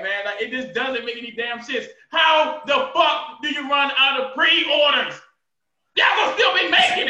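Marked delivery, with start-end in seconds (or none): 2.1-5.1 outraged shout. Real, not acted. Fan fumes at the sold-out pre-orders, outraged slow shout. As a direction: demand an answer, fuming.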